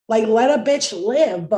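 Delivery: loud, slow, exasperated demand; loud drawn-out plea; loud slow rant. Real, not acted. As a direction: plead loudly, each word drawn out. Ranting about suffering.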